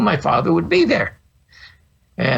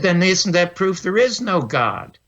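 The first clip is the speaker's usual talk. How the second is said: retold angry challenge, pitched higher; angry kid; 4 semitones higher than usual. Boy argues back at the angry minister, higher and mildly indignant. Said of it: "Now I'm angry 'cause he's angry".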